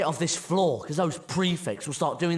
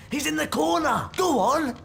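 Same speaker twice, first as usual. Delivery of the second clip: urgent shout; 8 semitones higher than usual. Acted. Boy urging his friend on in a chase, shouting. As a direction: raise the voice, high and urgent.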